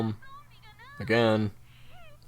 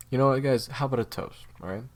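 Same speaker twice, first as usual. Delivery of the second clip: raising a toast; 5 dB louder than usual. Acted.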